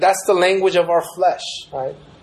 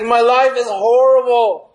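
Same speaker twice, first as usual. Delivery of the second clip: lamenting; 8 semitones higher, 4 dB louder than usual. Retold or imitated. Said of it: "He laments".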